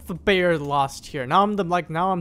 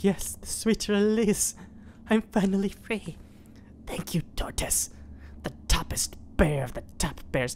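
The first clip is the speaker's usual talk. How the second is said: dying mad cow; 3 semitones higher, 4 dB quieter than usual. Pretend. Dead cow thanking the bear who freed it, dying breathy voice. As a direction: let it out like a grateful final breath. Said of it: "finally dead. He's like".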